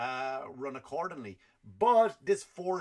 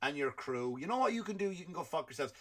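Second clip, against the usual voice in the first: mock angry DeSantis; 3 semitones higher than usual. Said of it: "DeSantis said".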